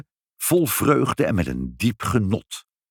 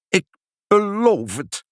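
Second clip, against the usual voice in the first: high, halting whine; plaintive tone; 12 semitones higher than usual. A narrator's reading. Pinkepank promising mother under pressure, high plaintive voice. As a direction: give in with a high lament. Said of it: "op klagelijke toon".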